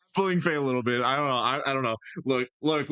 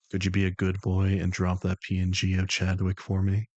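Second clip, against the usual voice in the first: low, deliberate request, firmly projected; controlled persona voice with more push and a questioning lift; The Voice, improved take; 4 semitones lower than usual. Acted. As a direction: coax like someone in charge, rising at the end. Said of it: "let me say that better".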